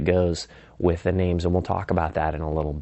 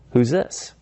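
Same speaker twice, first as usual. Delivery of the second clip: perked-up, higher questioning tone; curious; 4 semitones higher than usual. Acted. Prospect asks who is calling, curious. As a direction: ask as if intrigued by an unknown caller. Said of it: "John is gonna be super curious".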